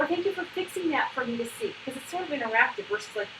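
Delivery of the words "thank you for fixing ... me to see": high, appreciative praise; celebrating. Shown as a demonstration. Coach models thanking a child for interacting, celebrating. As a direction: thank a child in a raised, cheery pitch. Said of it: "you wanna celebrate".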